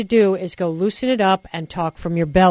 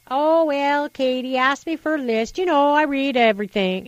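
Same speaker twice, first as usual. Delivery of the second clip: a hint of a higher, airy Palin voice; mock Palin answer; 4 semitones higher than usual. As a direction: lightly send her up as flustered.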